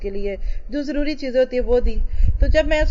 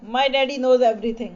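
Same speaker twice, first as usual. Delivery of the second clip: put-on slow child quote; much slower than usual. Voicing six-year-old child.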